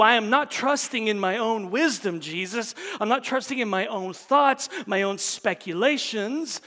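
impassioned spoken prayer to Jesus; fervent prayer. Pretend. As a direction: pour out the vow with conviction. Acted prayer of turning to Jesus.

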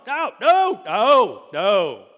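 very high, very loud repeated no; Luke's horrified scream. Acted. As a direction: wail it in horror. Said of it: "That's what's going on".

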